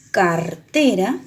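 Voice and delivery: cartera with a gentle tapped r; cartera, tapped r said slowly; soft single r in cartera. Shown as a demonstration. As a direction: tap the r lightly in cartera. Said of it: "la R suena más suave".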